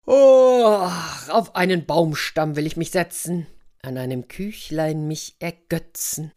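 big weary groan, then a rhyming bear line; tired bear wants a rest and a cake; lightly voiced weary bear. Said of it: "bis er schließlich müde wurde und sprach".

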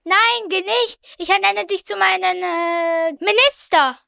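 high, hurried-to-think royal appointment; urgent plea. Acted. King stopping the departing prince with an offer, urgently. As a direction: plead to keep him, then land on the title.

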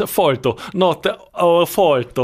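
put-on Italian accent, slow and loud; mock Italian accent. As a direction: ham up an Italian accent, drawing it out. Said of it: "Und ich meine italienisch". (übertriebener italienischer Akzent, langsam und laut)

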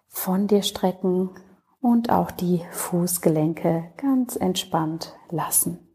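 calm, unhurried Yoga Nidra voice with long pauses; settled, even meditation delivery, phrase by phrase; guided meditation. Acted. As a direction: guide the listener gently into rest, leaving space between phrases.

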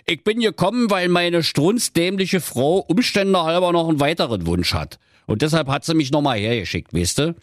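calm down a touchy pal; appeasing, with a touch of pleading; placating. Acted. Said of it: "Da sagte der Baggerfahrer Fischer beschwichtigend".

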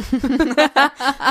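muffled laugh through cake; laughing with mouth full. Real, not acted. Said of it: "Der Kuchen ist einfach zu lecker".

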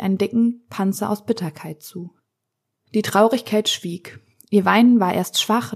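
calm storytelling voice, reading aloud; story narration. A narrator's reading. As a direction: tell the fairy tale gently to a listener. Reads fairy tale aloud. (ruhig vorgelesenes Märchen)

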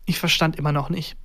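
ordinary delivery, nothing marked

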